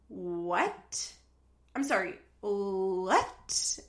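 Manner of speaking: slow drawn-out incredulous what; stunned disbelief. Real, not acted. Host reacting to Sean's threat, slow disbelief. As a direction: let the disbelief stretch out.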